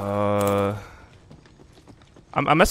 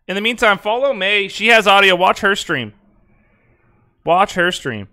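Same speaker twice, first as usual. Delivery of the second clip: raised, louder instruction; higher, flustered insistence; insistent urging; 6 semitones higher, 7 dB louder than usual. Real, not acted. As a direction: send the viewers away insistently. Urging viewers to another stream.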